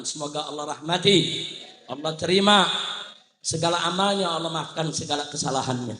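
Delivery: low preacher's supplication; solemn prayer. Real, not acted. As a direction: pray earnestly for the one who died. Prays for the dead.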